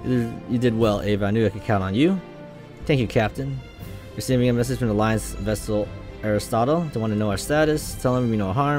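lightly acted crew dialogue; light dramatic read of captain and crew; game dialogue read aloud.

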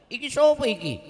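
loud, high Javanese challenge; Javanese accent. Acted. Amr asks in Javanese who stands before him. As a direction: bark it out like a Javanese man. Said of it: "orang Jawa nih".

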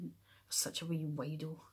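ordinary delivery

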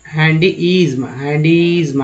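हैंडीइज्म ending in izm; ism said as izm. Shown as a demonstration. Teacher shows students ism said as izm. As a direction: close हैंडीइज्म on a buzzing izm. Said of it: "आईएसएम को इज्म बोलते हैं".

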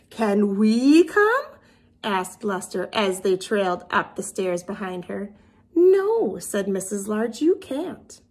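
lively storybook reading with character voices; reading to children. A narrator's reading. Teacher reading a picture book to her class. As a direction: read it to little kids with expression.

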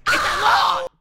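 high, loud squeal of delight; excited squeal. Real, not acted. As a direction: gush over the find. Excited about an item.

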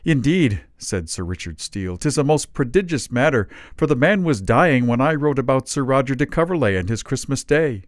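a lightly voiced proud soldier; pompous gentleman. A narrator's reading. Sir Richard Steele speaks.

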